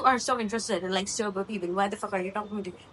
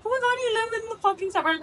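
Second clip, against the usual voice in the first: high, fast squeal of mock horror; squealed mock disbelief at someone's address; mocking snob; 13 semitones higher, 4 dB louder, faster than usual. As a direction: imitate an appalled snob, pitched way up. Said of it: "a sober cunt will tell me".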